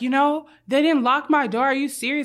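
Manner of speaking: ordinary talk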